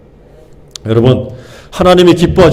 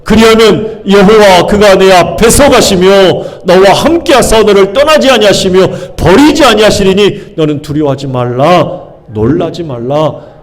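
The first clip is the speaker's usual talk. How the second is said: louder bold recitation; 3 semitones higher than usual. Shown as a demonstration. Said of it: "시작".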